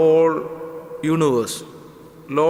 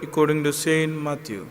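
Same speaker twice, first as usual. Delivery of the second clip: measured, solemn liturgical reading; gospel reading; faster than usual. Acted. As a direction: proclaim it like scripture at Mass. Priest proclaims the gospel reading.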